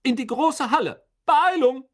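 high, loud hurrying order; stern command. Acted. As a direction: chase the crowd inside. Teacher hurries wet pupils. (hoch und laut antreibend)

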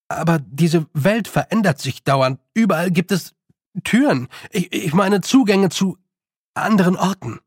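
put-on animated boy with a slight stumble; boy Roland explaining. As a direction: explain eagerly, correcting yourself.

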